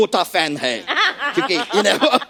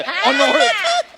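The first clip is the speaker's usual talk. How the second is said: Bengali accent on अनॉर्थ, drawn out slowly; bengali accent in hindi; 8 semitones higher, much slower than usual. Shown as a demonstration. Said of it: "मेरा Bengali accent भी निकला है".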